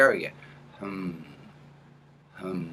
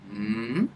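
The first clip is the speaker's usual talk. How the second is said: rising mm-hmm. Shown as a demonstration. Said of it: "we're gonna bring that up".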